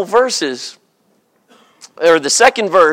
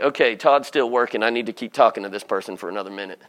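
sheepish inner thought; 11 semitones lower, 10 dB quieter, much faster than usual. Retold or imitated. Voicing his own excuse thoughts.

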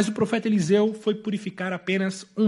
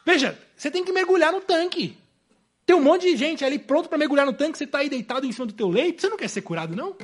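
Jesus' imagined intonation; 4 semitones higher, faster than usual. Acted. Preacher voices Jesus prodding the man on his bed, challenging. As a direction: goad someone lying down, then ask it offhand. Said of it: "como se a entonação de Jesus dissesse".

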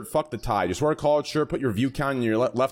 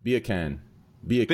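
put-on British accent; 2 semitones lower than usual. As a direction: mutter Beer can like a Brit. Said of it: "in a British accent".

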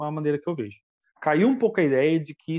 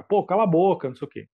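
retold angry retort; 4 dB louder than usual. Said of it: "ficou bravo lá no show".

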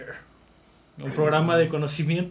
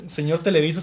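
laughing; 4 dB louder than usual. Real, not acted. Laughing address to Televisa.

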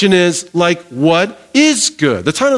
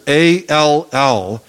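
slow letter-by-letter "A L L"; spelled out slowly; 2 semitones lower, much slower than usual. Shown as a demonstration. Preacher spells the word out slowly for the church. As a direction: spell out "A L L" one letter at a time. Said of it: "three letters".

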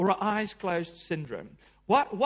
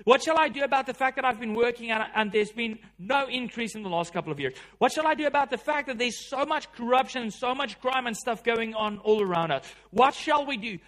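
pleading cries of desperation; 3 semitones higher, 4 dB louder than usual. Retold or imitated. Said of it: "cries of desperation like that".

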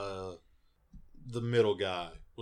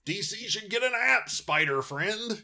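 playful plea; 13 semitones higher, 5 dB louder than usual. Acted. Playfully addressing Stan Lee.

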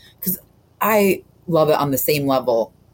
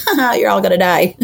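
higher, louder laughing movie quote; mock laughing taunt; 7 semitones higher, 6 dB louder than usual. Co-host quoting Hooper's laughing aside, mock gleeful taunt.

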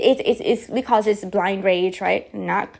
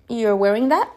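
mom's snide remark. Retold or imitated. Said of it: "She would say something like".

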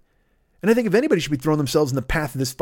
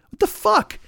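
incredulous shriek. Real, not acted. Disbelief at the advice.

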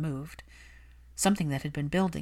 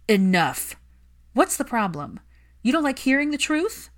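higher, louder furious plea; angry Hermione; 8 semitones higher, 6 dB louder than usual. Acted. Hermione scolding Malfoy for neglecting his son, heated. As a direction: defend the lonely child fiercely.

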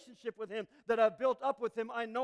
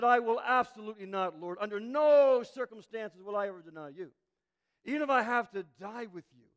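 louder, insistent vow; emphatic refusal; 5 dB louder than usual. Retold or imitated. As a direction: swear it hard, leaning into every word. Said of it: "replied emphatically".

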